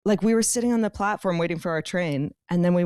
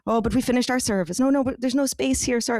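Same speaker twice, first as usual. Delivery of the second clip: higher-pitched mock Irish refusals; Irish accent; 4 semitones higher than usual. Townspeople refusing to feed hungry tourists, in an Irish accent. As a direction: imitate apologetic locals in an Irish accent. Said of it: "I'm doing a full Irish accent".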